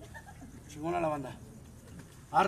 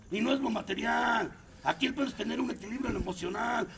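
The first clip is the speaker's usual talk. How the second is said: shouting. Real, not acted. Preaching at AA group.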